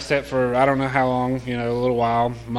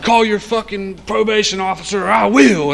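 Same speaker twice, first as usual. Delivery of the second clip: retold higher-pitched scolding; angry mom's threat; 6 semitones higher, 4 dB louder than usual. Mom threatening her using son, retold angry ultimatum. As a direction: imitate a mother laying down an ultimatum.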